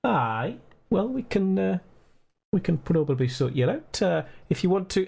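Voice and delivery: put-on slow, lightly Scottish elderly gent; Scottish accent, unhurried. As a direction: drawl it out like a Scottish innkeeper. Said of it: "slowly brings in".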